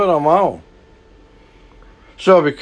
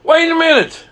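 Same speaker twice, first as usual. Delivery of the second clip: higher, louder "Wait a minute", building disbelief; second "Wait a minute" pushed higher and louder; louder incredulous stop; 13 semitones higher than usual. Retold or imitated. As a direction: stop him even harder, incredulous. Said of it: "I'm thinking in my mind".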